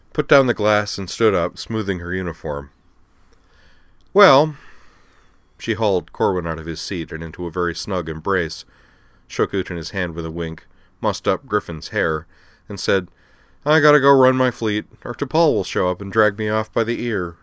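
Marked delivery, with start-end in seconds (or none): 4.1-4.6 booming, higher drawn-out well; loud hearty well. Acted. Aya voiced. 13.6-17.4 put-on higher, forceful veteran officer urging the kids on; a brash admiral rallying youngsters; tough admiral Aya. Aya voiced.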